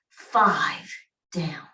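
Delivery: normal talking voice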